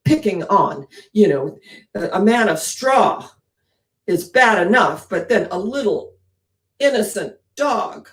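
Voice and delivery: Dorothy scolding the lion, mildly stern. Retold or imitated. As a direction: scold the bully firmly. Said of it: "slaps the cowardly lion on the nose and said".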